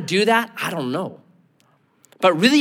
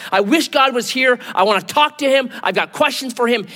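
higher-pitched mock rant; raised, insistent acted complaint; 6 semitones higher than usual. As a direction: rant as Job, demanding answers. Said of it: "ranting and raving".

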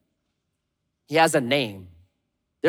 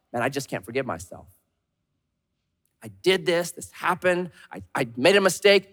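self-pity. Retold or imitated. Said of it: "We say this about ourselves".

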